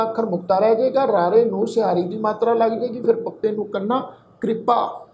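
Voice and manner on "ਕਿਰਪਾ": ਕਿਰਪਾ with the short i after the r, kri-pa; teacher's model reading of ਕਿਰਪਾ, kri-pa; careful pronunciation. Shown as a demonstration. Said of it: "ਸਿਹਾਰੀ ਦੀ ਮਾਤਰਾ ਲੱਗ ਕੇ ਉਚਾਰਨ ਹੋਏਗੀ".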